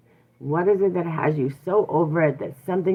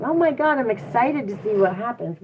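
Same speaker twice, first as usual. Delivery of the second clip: mock excitement; 4 semitones higher than usual. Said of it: "flip it into excitement".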